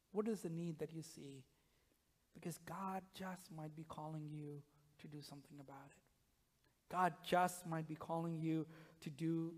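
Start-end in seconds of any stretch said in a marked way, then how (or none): none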